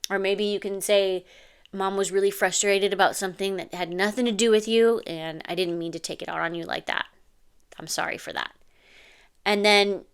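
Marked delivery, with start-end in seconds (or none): 1.7-8.5 softening, tender sorry; gentle apology. Shown as a demonstration. Second repair apology example.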